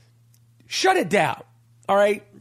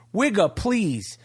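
slow, drawn-out dismissal, stretching each word; drawn-out dismissive; slower than usual. Acted. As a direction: wave it off slowly, like a catchphrase. Catchphrase dismissing the costumed fighters.

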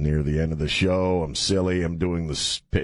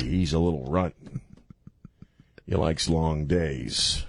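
Jack Nicholson impression; 3 semitones lower than usual. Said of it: "I do do a pretty good Jack Nicholson there".

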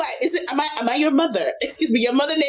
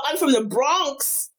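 drawn-out attempt at a Bronx accent; playful imitation of a Bronx American accent; slower than usual. Guest insists she is from the Bronx, mock Bronx accent. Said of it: "giving us your best American accent".

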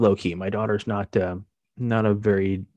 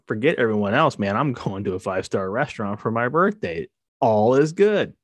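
put-on excited teen; 2 semitones higher than usual. Dad imagining his teenage self, mock thrilled. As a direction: sell the five-star birthday with glee. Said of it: "my immediate reaction would have been".

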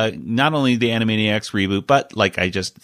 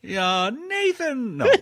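sarcastic; 4 dB quieter, much slower than usual. Acted. Sarcastic mock reply to "is it me.

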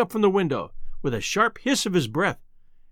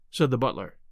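normal talking voice

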